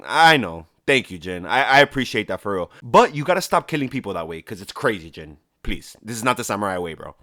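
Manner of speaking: lightly voiced old lord pleading with his nephew; mock stern uncle. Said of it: "Lord Shimura was like".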